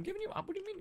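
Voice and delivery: high confused question; baffled, voice jumping up; surprised. Real, not acted. Confused by teammate's accusation.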